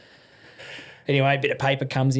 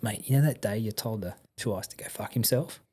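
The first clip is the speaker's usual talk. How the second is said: low-key, confidential aside; retold furtive murmur; 3 semitones lower, 6 dB quieter than usual. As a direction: quietly check nobody is listening. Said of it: "checks over his shoulders".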